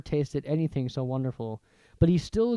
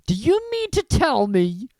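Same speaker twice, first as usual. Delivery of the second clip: loud, higher angry giant; growled; 9 semitones higher, 8 dB louder than usual. Acted. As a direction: threaten the Dursleys. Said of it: "he growled at the Dursleys".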